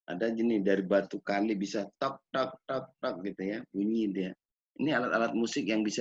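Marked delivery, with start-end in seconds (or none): 2.0-3.6 short, soft "tok" knocks; knocking stone imitation. Shown as a demonstration. Imitates river stones being struck.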